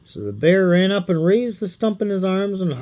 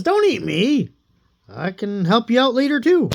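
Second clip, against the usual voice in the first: high, pleading bear voice; a big beast begging to be spared; 5 semitones higher than usual. Acted. The bear begging Ivan, high and pleading. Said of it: "And the bear says".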